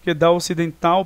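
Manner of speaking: "dá ocidental" linked without a break; spoken joined together. Shown as a demonstration. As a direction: glide from "dá" straight into "ocidental". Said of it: "aqui você fala junto".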